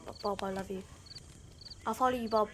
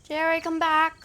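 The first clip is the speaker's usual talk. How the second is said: scared calling; 4 semitones higher, 7 dB louder, slower than usual. Real, not acted. Left alone, scared, calling.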